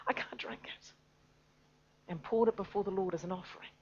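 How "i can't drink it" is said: David moved. Acted. David tells the warriors who risked their lives, tender whisper. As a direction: speak it tenderly to his men. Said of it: "And David looks and says".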